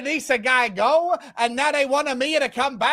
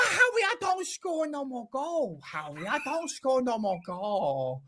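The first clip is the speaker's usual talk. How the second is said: put-on Italian accent; 8 dB quieter than usual. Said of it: "I do the Italian accent".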